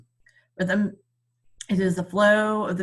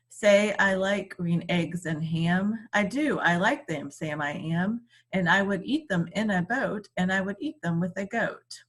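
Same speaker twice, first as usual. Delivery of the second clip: put-on reading to children. Teacher reading Green Eggs and Ham aloud, sing-song. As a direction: bounce on the rhymes for kids. Reads Dr. Seuss rhyme.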